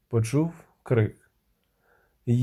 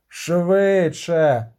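shout; 3 semitones higher, 4 dB louder than usual. A narrator's reading. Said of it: "крикнув Доррегарай".

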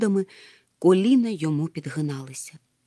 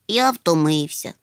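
slow, mildly whiny complaint; whining. Acted. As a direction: drag it out wearily. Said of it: "нудив він". (нудно, вередливо)

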